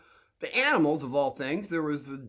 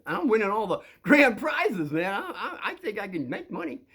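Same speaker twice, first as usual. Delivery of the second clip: put-on boy voice; 6 semitones higher than usual. Quoting himself as boy.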